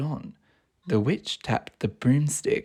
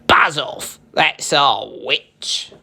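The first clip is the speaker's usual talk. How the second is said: growling beast, slow at the end; a monster warning off the dragon; terrible beast snarling; slower than usual. A narrator's reading. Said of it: "a yowl and a growl".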